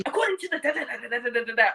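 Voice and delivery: imitating a professor reading from notes; mocking recital dissolving into babble. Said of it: "we didn't ask for a professor here".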